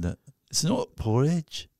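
slow put-on Scottish accent. Shown as a demonstration. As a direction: recite an ad line in drawn-out Scots. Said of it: "That's Scottish".

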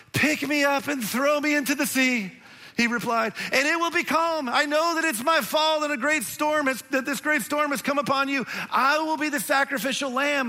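high, grand Shakespearean martyr voice; hammed-up heroic Jonah. Jonah offering himself to the sailors, mock-heroic and high. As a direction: overplay the noble sacrifice. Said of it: "make a fool of myself for a second".

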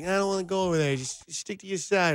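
mock Italian accent; joking imitation of an Italian speaker; Pagano, really Italian. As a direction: put on an Italian accent, lightly hammed-up. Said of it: "then just Pagano to speak, like, really Italian".

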